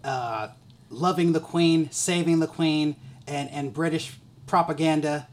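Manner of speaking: a lightly hammed-up announcer lead-in; host segue read. Host introducing the This Is America segment, mock announcer. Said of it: "transition this well".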